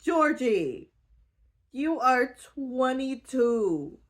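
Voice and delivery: high, loud, slow incredulous lecture to a friend; pleading with Georgie, high, loud and exasperated; exasperated scolding. Retold or imitated. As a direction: scold her like a friend who made a terrible choice. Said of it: "And I was like".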